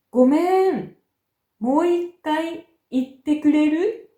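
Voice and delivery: 語尾の「くれる？」をはっきり上げる; uptalk. Shown as a demonstration. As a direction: raise the pitch on くれる？ at the end. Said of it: "語尾を上げて発音します". (上がり調子の「くれる？」)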